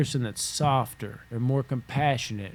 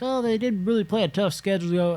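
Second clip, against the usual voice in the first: high, mock-amazed fan voice; mock surprised fan; 8 semitones higher than usual. Imitating a surprised fan who just got upset. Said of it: "They're like".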